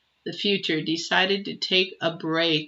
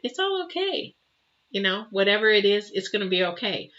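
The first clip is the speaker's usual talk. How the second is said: higher and softer, soothing an upset stranger; gentle reassurance; 3 semitones higher, 5 dB quieter than usual. Retold or imitated. Advising viewers how to comfort an upset person, softly reassuring. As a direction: comfort them softly, like calming a child. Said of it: "And just say".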